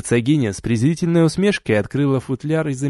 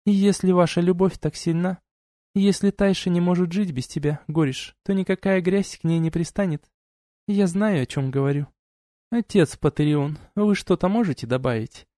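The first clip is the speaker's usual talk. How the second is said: duchess voiced higher, cool and lecturing; stern duchess; 6 semitones higher, 3 dB quieter than usual. A narrator's reading. Duchess reproaching the couple, cool and lecturing. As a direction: scold them like a haughty duchess. Duchess speaks then asks priest.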